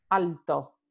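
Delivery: "alto" con l lateral clara; Puerto Rican alto. Shown as a demonstration. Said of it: "se pronuncian alto". ("alto" a la puertorriqueña, con l)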